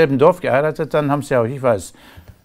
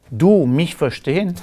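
mock broken German; 3 semitones higher, slower than usual. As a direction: drag it out like talking down to a foreigner. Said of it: "da sagt einer".

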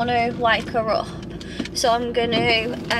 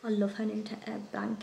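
hushed whisper; 2 semitones lower, 13 dB quieter, faster than usual. Real, not acted. Whisper near sleeping baby.

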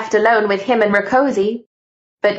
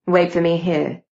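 understated gentle instruction; a touch of tenderness; 3 semitones lower than usual. Acted. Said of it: "in an unexpectedly gentle tone of voice".

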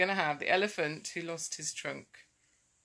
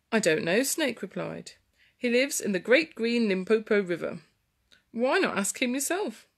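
put-on storytelling to children.

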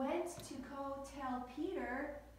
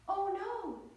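higher-pitched, storyteller's horrified cry; cry of horror; 7 semitones higher, 4 dB louder than usual. A narrator's reading. Storyteller voicing Mary finding the open tomb, horrified. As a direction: narrate a moderately alarmed outcry. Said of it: "she cried in horror".

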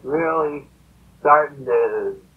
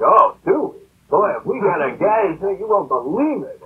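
higher-pitched, delighted church member on the phone; imitating an eager, relieved caller; eager reply; 6 semitones higher than usual. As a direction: jump at it with lively, swooping pitch. Church people answer the phone call.

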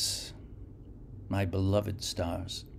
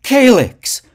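high, full-throated scream; a buried man calling for help; desperate shout; 16 dB louder than usual. Acted. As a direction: scream the name into the dark. Garak screams the name.

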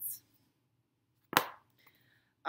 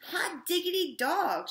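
slow, loud, much higher whoop; excited shout; 10 semitones higher, 9 dB louder, slower than usual. A narrator's reading. Damien celebrates the news of the elevators, loud slow shout. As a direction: holler it with delight. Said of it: "shouted Damien".

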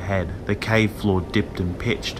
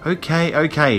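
higher, impatient reply; snapped; 7 semitones higher than usual. A narrator's reading. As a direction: give in crossly, mildly acted. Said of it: "Tara snapped".

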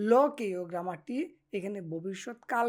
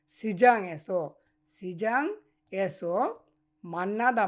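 slow Korean model phrase; 3 dB louder, slower than usual. Shown as a demonstration. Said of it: "তাহলে এইভাবে বলবেন".

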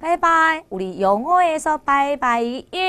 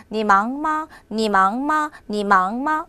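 brisk conversational 你忙吗, 忙 still rising; natural-speed drill of 你忙吗; quick, tones intact; 2 semitones lower, much slower than usual. Shown as a demonstration. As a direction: say 你忙吗 quickly, keeping every tone. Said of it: "빨리 이야기하지만 그 안에 성조는 있습니다".

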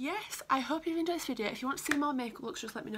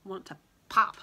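playful shout; 9 dB louder than usual. Real, not acted. Playful outburst after whispering.

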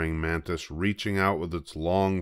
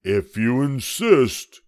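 gorilla; 6 semitones higher, 6 dB louder, slower than usual. A narrator's reading. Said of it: "said the gorilla".

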